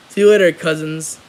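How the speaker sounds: a hint of an evil dummy. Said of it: "turns his head ... and says".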